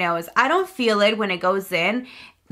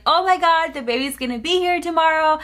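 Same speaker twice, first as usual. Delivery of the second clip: freaking out; 6 semitones higher than usual. Retold or imitated. Family learning the baby comes tomorrow, excited high panic. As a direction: squeal it like the news just landed. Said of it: "freaking out".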